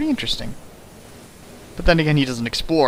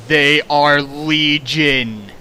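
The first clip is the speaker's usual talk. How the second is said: ominous; much slower than usual. Acted. Ominous joke line.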